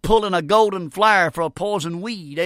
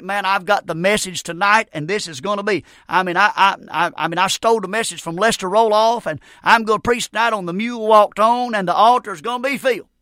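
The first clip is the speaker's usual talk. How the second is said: mock boastful; 2 semitones higher than usual. Young preacher boasting about tonight's message, lightly mocked. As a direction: puff up into a mock brag, with stammers.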